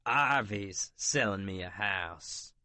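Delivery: slow, gritted-teeth warning; through gritted teeth. Acted. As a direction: clench the jaw and grind it out. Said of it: "I grit between clenched teeth".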